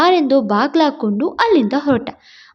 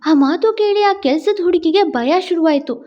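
plain reading voice

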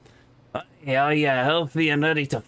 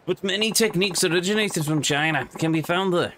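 put-on Scottish accent; 2 semitones higher than usual. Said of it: "a Scottish accent that sounds like it's poorly done by an Englishman".

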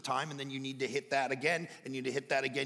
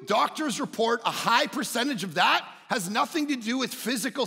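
raised, insistent sermon voice; emphatic preaching; 7 semitones higher, 6 dB louder than usual. Real, not acted. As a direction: press the point on the congregation, pitched up. Preacher presses the point.

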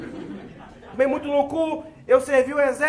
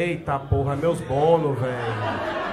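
much softer, lower, under the breath; muttered dismay; 12 semitones lower, 7 dB quieter, slower than usual. Retold or imitated. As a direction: mourn the lost snacks to yourself. Whispered dismay losing snacks.

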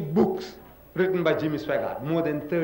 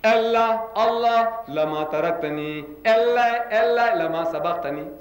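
Jesus crying out; 4 semitones higher than usual. Retold or imitated. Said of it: "Jesus is crying to Allah".

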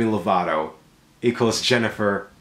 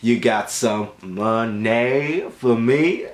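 slow hustler; slower than usual. Acted. Slow hustling money request.

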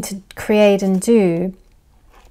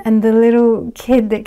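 ordinary delivery

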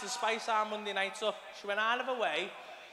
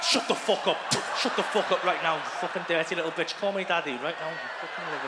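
mock dirty talk; 4 semitones lower, 3 dB louder than usual. Acted rough sex talk.

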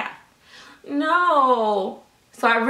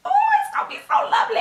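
gloating falsetto; 3 dB louder, much faster than usual. Pretend. Gloating over daughter's future trouble.

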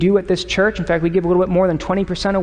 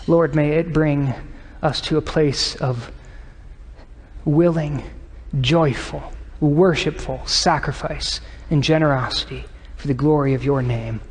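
reverent closing prayer; 3 semitones lower, 3 dB quieter than usual. Real, not acted.

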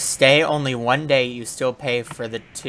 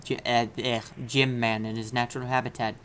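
mock documentary narration; 5 dB quieter than usual.

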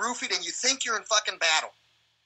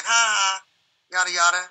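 mock laughter; 6 dB louder than usual. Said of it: "I remember them laughing".

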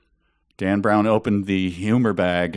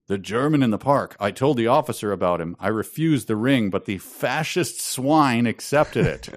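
put-on French Canadian accent; 3 semitones higher than usual. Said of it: "let me just read this".

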